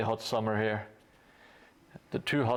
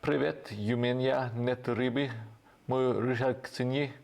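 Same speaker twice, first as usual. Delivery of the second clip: put-on best Russian accent. Streamer reading a chat message aloud, best Russian accent. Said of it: "in my best Russian accent".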